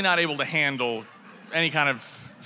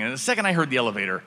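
ordinary delivery

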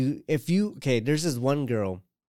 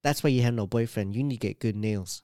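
put-on Vietnamese accent; 3 semitones lower than usual. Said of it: "she sounds like a Vietnamese lady".

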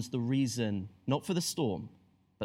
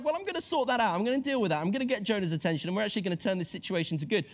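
higher, brisk and confident; breezy God; 4 semitones higher, much faster than usual. Pretend. God about Jonah, brisk and upbeat, a touch higher. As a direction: sort it out, no fuss. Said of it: "God's like".

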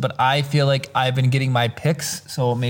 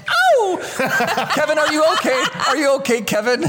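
laughing; 9 semitones higher than usual. Pretend. Home Alone mother call, laughing.

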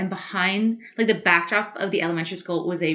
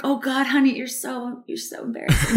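laughing embarrassment; 4 semitones higher than usual. Retold or imitated. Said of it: "I'm just like".

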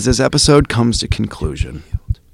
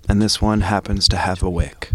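spoken word poem. Acted. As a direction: perform it like a slam poem. Spoken word poem opening podcast.

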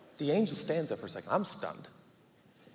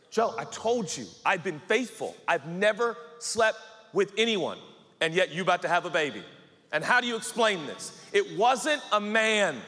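heated protest; 4 semitones higher, 3 dB louder than usual. Acted. Acted quarrel over the pregnancy.

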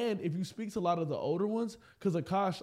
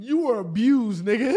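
emphatic loud; 4 semitones higher, 10 dB louder than usual. Real, not acted. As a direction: hammer the point home. Repeating the insistence louder.

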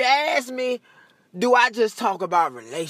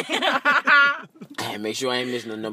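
said through a laugh; cracking up while repeating it; 6 semitones lower than usual. Shown as a demonstration. Comic repeats his line to the room while laughing. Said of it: "repeated through laughter".

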